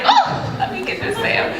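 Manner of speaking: thrilled at spotting a makeup sale; excited shopper. Retold or imitated. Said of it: "you're like".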